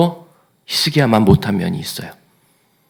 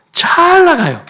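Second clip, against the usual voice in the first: excited; 5 dB louder, slower than usual. Acted. Preacher exclaims king's success.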